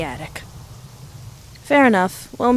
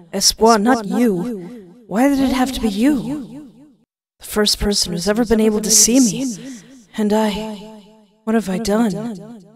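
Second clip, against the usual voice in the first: sorrowful ghost. Acted. Ghost grieves over Espoir.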